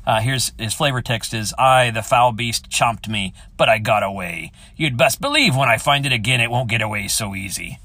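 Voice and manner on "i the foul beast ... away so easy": pirate voice. Shown as a demonstration. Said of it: "Put on my pirate voice for you".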